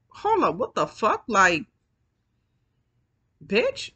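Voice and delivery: friend going off. Retold or imitated. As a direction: imitate the friend snapping back in outrage. Friend goes off on him.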